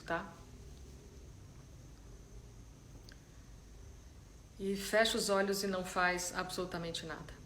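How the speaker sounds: calm, unhurried guidance with long silences; soft-spoken meditation leader, letting each instruction settle; guided meditation. Real, not acted. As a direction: ease them gently into stillness, leaving space between phrases.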